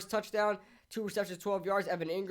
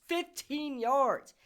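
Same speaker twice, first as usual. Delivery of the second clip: exasperated; 7 semitones higher, much slower than usual. Real, not acted. Ranting about a penalty.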